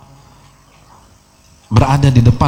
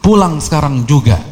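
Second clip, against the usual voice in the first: mild mock yell, higher pitched and drawn out; retold motherly yell; 4 semitones higher, slower than usual. Mother calls her teaching son home before his students, mock yell. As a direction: imitate a mother calling out, without real shouting. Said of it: "ibunya teriak".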